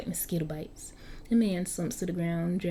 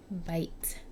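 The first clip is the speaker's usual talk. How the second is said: whispered; 6 dB quieter than usual. Acted. Vampire bite moment.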